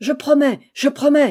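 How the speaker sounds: high, breathless, panting cry. Narrator voicing the cousin making her promise, crying out breathlessly. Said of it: "s'écria la cousine, haletante".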